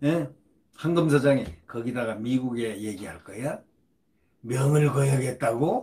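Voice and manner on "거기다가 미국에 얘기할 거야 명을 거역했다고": sarcastic, jabbing tone. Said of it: "이렇게 비꼬았습니다".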